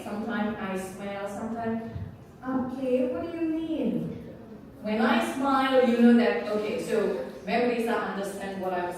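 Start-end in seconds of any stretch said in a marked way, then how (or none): 2.4-4.2 a touch of puzzled questioning; curious. Shown as a demonstration. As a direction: ask as if you didn't quite follow.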